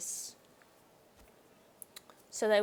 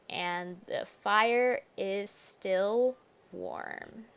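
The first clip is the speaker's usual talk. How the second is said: slow, hushed narrator read of the game text; slow dramatic reading; much slower than usual. Shown as a demonstration. Streamer reading the game's lines aloud, slow and ominous. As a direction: read it like spooky flavour text.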